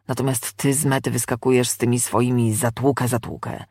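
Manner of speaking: a hint of an affronted, long-winded demon; lightly voiced chatty demon. Demon protests to the exorcist, lightly voiced and affronted. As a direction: lightly play a put-upon demon rattling on.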